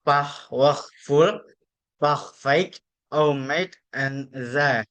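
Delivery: French-accented word list, one word at a time. Shown as a demonstration. Student presenting word examples to show French sounds, French accent. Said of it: "represent the sounds of French accent".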